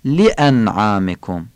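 لانعامکم slow with a crisp hamza; Arabic و. Shown as a demonstration. Teacher models لانعامکم slowly. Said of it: "واوش هم که باید عربی بگیم".

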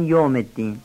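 یوم wrongly said as "yom"; mispronounced fatha. Shown as a demonstration. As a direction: say یوم الدین with an o in place of "yaw".

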